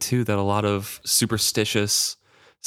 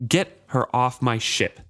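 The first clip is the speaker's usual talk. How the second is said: snapped; 2 semitones higher, slower than usual. Acted. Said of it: "he snapped".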